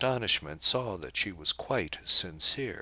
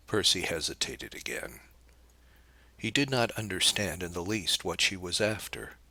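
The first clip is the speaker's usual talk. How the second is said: plain reading voice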